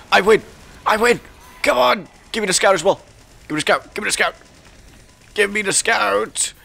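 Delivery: high, excited victory cries; triumphant shouting. Real, not acted. Gamer demanding the scout after winning, high triumphant shouts. Gloating, calling for next kill.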